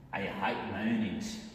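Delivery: put-on slow, drawn-out Australian accent. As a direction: do an Australian guy, stretching the words out. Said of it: "our Australian guy says".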